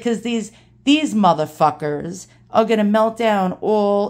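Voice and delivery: imitated blunt old New Yorker; Ronnie's New York accent. Dad's friend curses the melters, New York accent. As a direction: swear it like an old-timey Brooklyn guy. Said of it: "old-timey New Yorkers".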